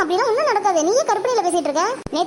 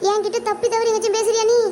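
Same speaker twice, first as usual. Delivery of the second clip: higher-pitched, left-out complaint; indignant protest; 3 semitones higher than usual. Acted. Ignored friend challenges the boy to notice them, indignant. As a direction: demand some attention, put out.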